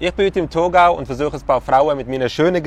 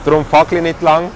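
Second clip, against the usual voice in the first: put-on rhyming pickup lines with a Thurgau accent; mock Thurgau dialect, verse by verse; Thurgau German. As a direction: recite a little love poem in put-on Thurgau dialect. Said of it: "Das Ganze natürlich im Thurgauer Deutsch".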